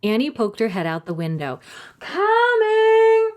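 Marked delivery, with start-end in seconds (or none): 2.0-3.3 high, loud shout. A narrator's reading. Annie shouts back to mother, loud. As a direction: yell it out the window. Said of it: "she shouted".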